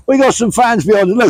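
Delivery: high-pitched, delighted laughing talk. Real, not acted. Telling viewers about fans passing behind, laughing. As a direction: say it through real laughter.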